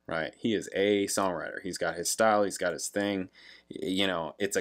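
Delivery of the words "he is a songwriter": "a" stretched to a full AY for emphasis; stress on A. Real, not acted. Insisting on the singer's craft, stress on "a". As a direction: hit "a" as AY, setting it apart.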